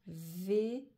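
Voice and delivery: VÉLO in two stretched halves; syllable by syllable. Shown as a demonstration. Teacher reading back vélo, syllable by syllable. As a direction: lengthen vé, then add lo.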